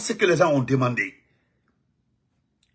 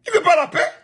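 high, loud outburst on the repeat; a sharp indignant cry; indignant exclamation; 4 dB louder than usual. Real, not acted. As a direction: throw the line up high in disbelief.

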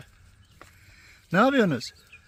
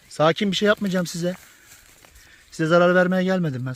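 raised voice, calming the animals; loud reassurance; 3 semitones higher, 9 dB louder than usual. Real, not acted. Telling snakes he means no harm, loud reassurance. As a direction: call it out loudly to reassure.

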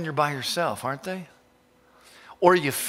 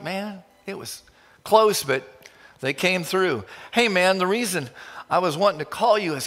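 excited Graham Cook; 3 semitones higher than usual. Retold or imitated. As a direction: cheerfully spill big news to a friend. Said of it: "he would say".

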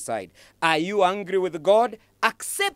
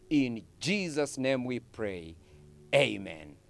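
closing prayer; 2 semitones lower than usual. Real, not acted.

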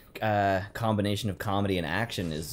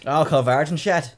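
mock repeat; 6 semitones higher, 6 dB louder than usual.

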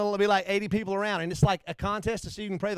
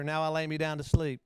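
put-on child's bedtime prayer; 3 semitones lower than usual. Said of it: "they repeat after".

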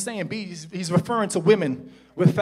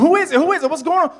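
higher, raised mock-insistent questioning; clamouring questions; 13 semitones higher, 11 dB louder than usual. Family asking who keeps calling, imitated clamour.

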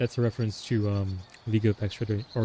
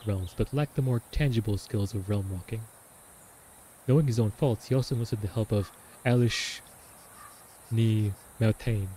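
dramatic diary reading. Acted. Reads the diary aloud.

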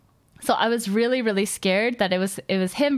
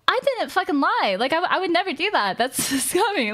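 near tears; 5 semitones higher than usual. Retold or imitated. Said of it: "on the verge of tears".

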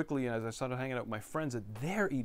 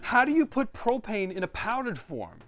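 much higher and louder, laughing in disbelief; 11 semitones higher, 8 dB louder than usual. Real, not acted. Reading propane on a sample label, incredulous laughing outcry. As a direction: cry out at the absurdity with a laugh. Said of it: "I couldn't believe it".

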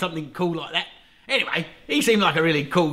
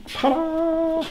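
high, bright showman ta-da; 12 semitones higher than usual. Pretend. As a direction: unveil it like a magic trick. Unveiling the hive.

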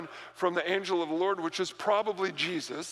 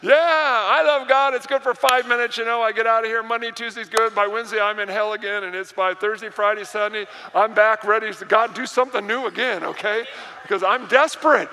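mock fickle believer; 3 semitones higher, 7 dB louder than usual. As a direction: mimic a flaky believer's overblown enthusiasm. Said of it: "You're like".

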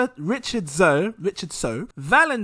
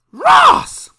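loud shout-out; 11 dB louder than usual. Real, not acted. Shouting out a patron name.

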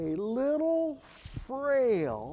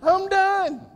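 emphatic repeat; 10 semitones higher, 6 dB louder than usual. Real, not acted. Repeat, high and loud.

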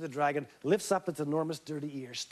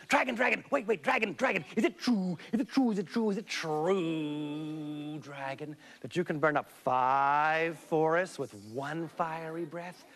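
eager pleading. Acted. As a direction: wheedle the dragon excitedly. Elizabeth flattering the dragon.

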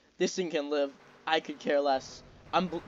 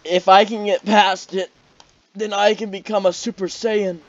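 hyped up; 5 semitones higher, 11 dB louder than usual. Real, not acted. Hyped declaration mid-fight.

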